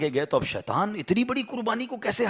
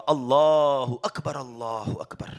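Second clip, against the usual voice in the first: heavenly voice; 4 semitones lower, much slower than usual. Acted. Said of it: "اوپر سے آواز آئی".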